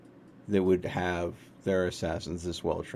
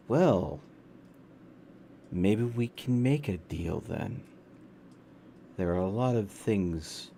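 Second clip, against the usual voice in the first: slow, smiling fey charm; fey-like smile; 2 semitones lower, 6 dB quieter, slower than usual. Acted. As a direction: let a sly fey smile color every word. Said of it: "fey-like smile in my voice when I say this".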